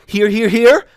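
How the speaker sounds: rising mock outrage. Thea mocking the memory fixers, voice climbing. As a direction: hammer each "here" harder in mocking anger.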